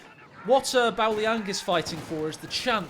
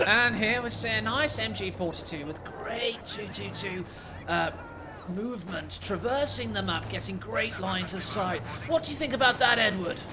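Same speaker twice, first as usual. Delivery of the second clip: lightly hammed-up British commentator voice; a touch of posh sports announcer, played for laughs; half-joking test match special commentary; mock pro broadcaster. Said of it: "Like in your pro broadcaster voice edits".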